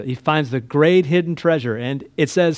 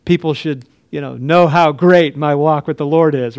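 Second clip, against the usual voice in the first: mock boastful; 5 dB louder than usual. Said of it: "Blah, blah, blah. we don't talk like this".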